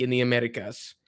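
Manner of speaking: a hint of an accent on Americas; slight accent. Real, not acted. Vlogger naming the league, slipping into a slight accent. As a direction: slip into a light accent on "Americas". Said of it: "I don't know why I said that with a, with an accent".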